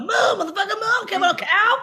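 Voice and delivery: "Move" stretched into a mooing "moo" sound, high and laughing. Retold or imitated. Driver yelling at a cow, stretching "Move" into a moo. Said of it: "you really accent the moo part of move".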